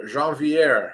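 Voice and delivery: slow, lightly French Jean Vier; French accent attempt. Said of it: "that's my French accent attempt".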